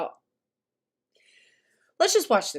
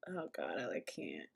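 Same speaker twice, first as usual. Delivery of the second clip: very quiet, low and choked back; hushed, overwhelmed falter; trying not to cry; 17 dB quieter than usual. Real, not acted. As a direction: barely get it out, holding back tears. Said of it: "I'm gonna try not to cry".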